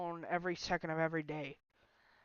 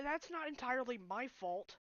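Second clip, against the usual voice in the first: tearful; 5 semitones higher, 4 dB quieter than usual. Real, not acted. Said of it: "of course I'm gonna cry".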